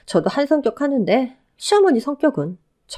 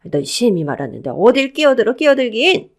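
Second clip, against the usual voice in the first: sharp rebuke rising at the end; angry rebuke; 2 semitones higher, 4 dB louder than usual. Acted. Mother-in-law snapping at the interrupting newcomer, angry. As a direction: cut the interrupter off angrily. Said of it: "한바탕 화를 내고는".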